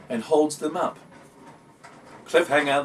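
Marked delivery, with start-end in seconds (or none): 2.2-2.8 declaring. Acted. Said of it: "the worm declared".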